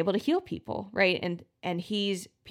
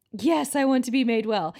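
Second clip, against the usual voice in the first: a grand, triumphant yes, a touch higher and louder; glorious way; 4 semitones higher, 3 dB louder than usual. Shown as a demonstration. Lame man answering Jesus, mock glorious and triumphant. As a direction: proclaim it like a hero accepting his healing. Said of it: "glorious way".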